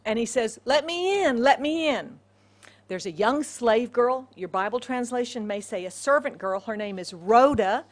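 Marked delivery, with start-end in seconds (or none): 0.7-2.2 raised, higher call at a door; an acted plea from outside; calling to be let in. Peter calls at the outer gate, mildly urgent.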